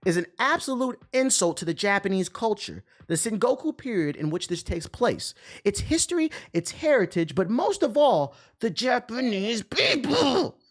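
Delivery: high, grandly dragged out, the last words slowed; mock solemn commenter.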